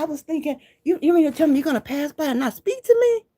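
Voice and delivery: high, loud indignant lady voice; mock upset stranger. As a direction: play the stranger's hurt complaint. Stranger upset she was ignored.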